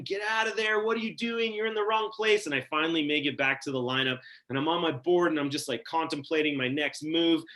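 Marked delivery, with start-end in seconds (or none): 0.0-2.5 higher-pitched mock announcer, not shouted; lightly voiced announcement. Lifeguard announcements that keep coming, lightly imitated warning. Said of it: "the announcements just keep coming".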